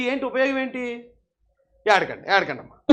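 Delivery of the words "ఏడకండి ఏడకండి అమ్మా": mock consoling. Mock consoling a crying man.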